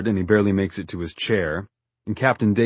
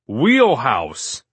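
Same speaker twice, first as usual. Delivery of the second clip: raised, louder captain's order; screamed command; 4 semitones higher, 5 dB louder than usual. A narrator's reading. Captain orders Forty off after he nearly falls in, screamed command. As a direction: shout it as an order across the deck. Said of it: "Captain Dave screams".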